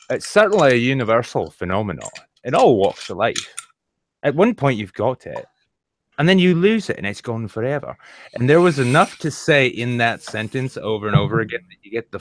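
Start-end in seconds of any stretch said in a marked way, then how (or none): 0.1-8.0 put-on Scottish accent. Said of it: "Sick Boy says".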